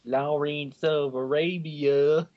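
slow, drawn-out grand announcement; grand announcer. Pretend. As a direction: announce it like an epic film title. Grand title delivery.

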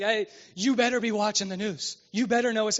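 a light impression of a nagging parent; scolding elder. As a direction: warn them like an older parent. Older generation scolding the young.

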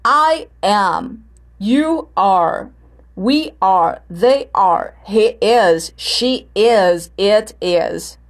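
each pair from "I am" to "It is" stepping down; separate, measured statements, falling tune; answer intonation. Shown as a demonstration. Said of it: "Se for na resposta, como é que vai ficar?".

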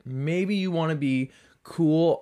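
ordinary talk

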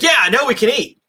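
high, loud gleeful quote; gleeful mock shout. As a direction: belt it out like starving villagers cheering. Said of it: "and then they're like".

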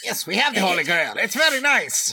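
hammy high French taunt; mock French accent. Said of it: "Monty Python guard quote".

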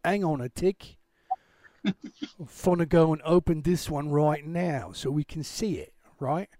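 half-hearted mock Australian accent. Host narrating screen setup to viewers, in a half-baked Australian accent. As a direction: put on a rough Australian-cum-London accent. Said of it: "talking with an Australian accent".

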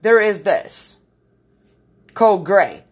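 overhead page. Retold or imitated. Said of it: "somebody say".

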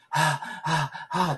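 荒い息. Retold or imitated. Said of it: "って言うわけよ".

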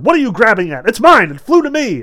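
high, loud protest; indignant quarrelling. A narrator's reading. Spectator fighting another for money, indignant shout. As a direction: squabble loudly over what is yours.

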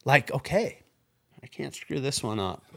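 overwhelmed at being picked last; shocked. Retold or imitated. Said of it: "And I go".

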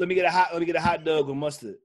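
Baltimore-style "dog", said as "Doug"; mock Baltimore vowel in "dog", like "Doug". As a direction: order it with "dog" pronounced "Doug". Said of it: "They say Doug".

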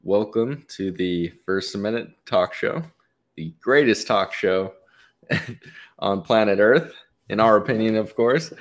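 booming showman welcome to the crowd; grand entrance announcement. Acted. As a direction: announce it like a ringmaster. Host opens show like announcer.

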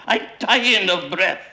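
high choking complaint; strangled cry. A narrator's reading. Mister Weasley coughs in the smoke, wailing. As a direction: wail it as if out of breath. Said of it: "he cried".

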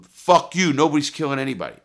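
loud, high, fast retort; angry comeback. Retold or imitated. Larry defying mobsters at the meeting, angry shout. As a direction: fire back loudly in an acted quarrel.

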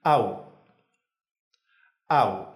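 "Au" as one syllable, A gliding into U; joined diphthong. Shown as a demonstration. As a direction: run A and U together in "Au". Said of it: "la A y la U en una sola sílaba".

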